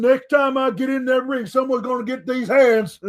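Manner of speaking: put-on friendly babyface boast about the next match; lightly voiced upbeat wrestler warning; good-guy Braun promo. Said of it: "where he says".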